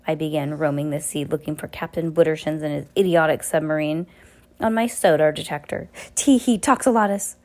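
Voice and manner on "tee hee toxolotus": villain's giggle. Acted.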